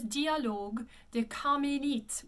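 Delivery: "Dialogue des Carmélites" in French, closed é; French pronunciation. Shown as a demonstration. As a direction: model "Dialogue des Carmélites" with silent endings on des. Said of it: "with that accent aigu again".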